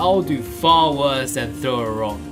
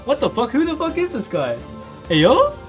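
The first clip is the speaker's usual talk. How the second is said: put-on loud, high, raging old-woman voice; a high-pitched snarling old woman threatening bullies; furious old woman; 5 semitones higher, 5 dB louder than usual. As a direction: roar at the children like a furious grandmother. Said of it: "she finally spoke in a voice thick with rage".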